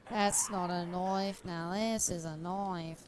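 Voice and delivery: put-on mild Crocodile Dundee Australian accent; a light Aussie knife quote. Streamer quoting famous film in mild Australian accent. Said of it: "That's Australian, though".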